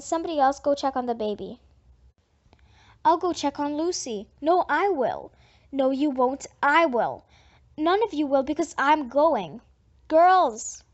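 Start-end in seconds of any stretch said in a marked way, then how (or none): 3.0-9.6 squabbling. Acted. Girls squabbling over the baby. 10.1-10.8 loud, sharp call to stop; mother shouting to stop the girls' squabble. Acted. Mother calling out over squabble.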